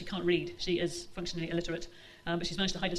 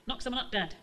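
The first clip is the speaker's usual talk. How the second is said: repeated loudly; 4 semitones higher than usual. Acted. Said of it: "she repeated loudly".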